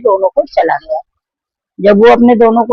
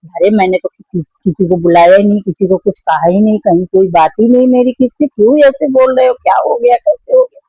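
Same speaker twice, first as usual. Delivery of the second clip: mildly acted timid fear. Wife denying it to her angry husband, mildly frightened. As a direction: plead innocence, pitch climbing into a worried question. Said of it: "डरी डरी सी, सहमी सहमी सी".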